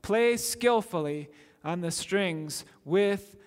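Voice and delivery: ringing scripture read from the pulpit; proclaimed psalm reading. Acted. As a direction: call the verses out like a summons to praise. Preacher reads psalm call to joy.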